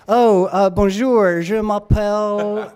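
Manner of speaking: mock American accent on the French, hammed up. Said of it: "speak French with an American accent".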